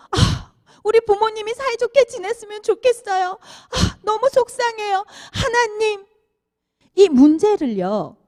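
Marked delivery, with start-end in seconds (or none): 0.1-6.1 put-on child's sad prayer. Child praying about parents acted.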